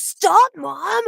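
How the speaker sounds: put-on high, loud kid's protest; exasperated mock whine at a parent; imitating her son. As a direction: mimic a child begging mom to quit. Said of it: "He goes".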